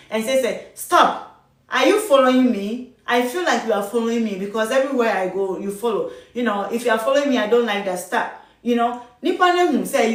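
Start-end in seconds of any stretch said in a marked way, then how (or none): 0.7-8.4 firm assertive. Shown as a demonstration. Nurse to patient following her, firm and assertive. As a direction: cut him off, then call out the following. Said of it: "Be firm".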